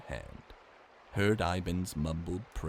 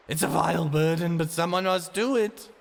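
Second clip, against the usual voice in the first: grim warning; 10 semitones higher, 9 dB louder than usual. Acted. Ivan warns.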